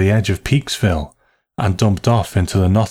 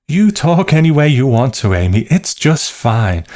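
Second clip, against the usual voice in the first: higher, emphatic permission; placating assurance; 6 semitones higher, 3 dB louder than usual. A narrator's reading. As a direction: give forced, emphatic approval. Mother placates the aunt out of fear.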